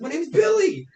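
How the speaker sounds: high, loud creepy introduction; creepy stranger. Acted. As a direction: introduce yourself in a high eerie voice. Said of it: "He's like".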